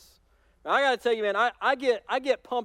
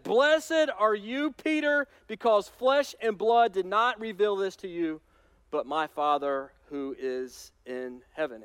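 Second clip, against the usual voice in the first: proud blessing. Acted. Jesus praises Peter with a slow, raised blessing. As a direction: bless him grandly, drawing out the words.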